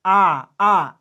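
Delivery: आ drawn out long, a held long vowel. Shown as a demonstration. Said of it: "आपको time ज़्यादा लग रहा है".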